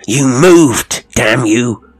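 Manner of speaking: shouted in terror, pitch jumping; cried out. Acted. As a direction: yell it at the figure, frightened. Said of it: "he cried".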